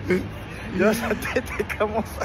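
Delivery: drawn out very slowly, savouring it; each word stretched like a slow-motion replay; dramatic slow-mo. Real, not acted. Dramatic slowed repeat.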